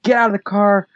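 high, mock tough challenge; lightly voiced guy daring someone to fight; playful imitation of a man picking a fight; calling out the dude. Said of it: "he's trying to call out the dude".

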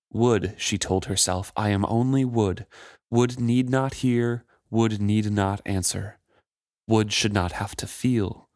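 reading a novel aloud with voiced quotes; steady audiobook read of the chapter; story narration. A narrator's reading.

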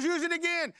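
high, insistent retold holler; exasperated yell. Father yells at struggling son, exasperated. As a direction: fire the order back urgently.

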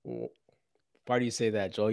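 whispering. Real, not acted. Unvoiced aside.

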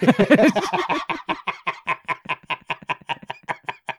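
loud high burst of laughter; cracking up; big laugh. Real, not acted. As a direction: laugh hard at your own joke. Laughs at own joke.

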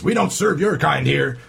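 slow, mock refusal in a joke; bartender refusing service. Bartender turning away a unicorn, lightly acted refusal. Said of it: "the bartender looks down at the unicorn and says".

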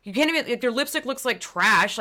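high, hammed-up gushing compliments; mock gushing flattery. Mock-flattering a friend's look, in hammed-up high gushing. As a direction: gush over them in a fake sweet high voice. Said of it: "be like".

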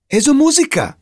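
high shouted question; shouting. A narrator's reading. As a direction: shout it, baffled. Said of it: "צעקה ירדן".

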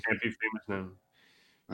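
audio cutting out; choppy broken-up audio; tape dropouts. Real, not acted. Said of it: "Your audio keeps cutting out".

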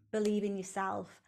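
ordinary talk

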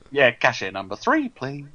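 lightly camp cashier call, lilting up on three. Retold or imitated. Echoing the post office queue call, camp cashier voice. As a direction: imitate a bouncy post office announcer. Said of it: "that's a very camp cashier voice".

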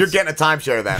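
fast, pushy sales pitch; excited salesman. Pretend. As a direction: rush it like a hard sell. Salesman teasing friend.

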